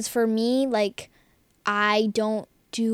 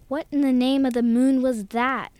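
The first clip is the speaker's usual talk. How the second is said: shouted in alarm, higher; shouting; 3 semitones higher, 7 dB louder than usual. A narrator's reading. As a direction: yell it out in shock. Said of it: "Flynn shouted".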